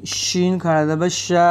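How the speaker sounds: श of शीन spread wide in the mouth. Shown as a demonstration. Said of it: "आवाज़ पहले मुंह में फैलेगी". (शीन का श मुंह में फैला कर)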